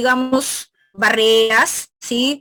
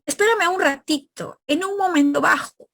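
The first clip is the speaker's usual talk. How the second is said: lively Peruvian everyday phrasing, lifted high; Peruvian casual speech; 6 semitones higher than usual. Shown as a demonstration. Teacher demonstrating Peruvian diminutive ito, lifted higher. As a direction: say it like a Peruvian asking for a minute, pitch raised. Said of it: "nosotros en Perú, cuando decimos".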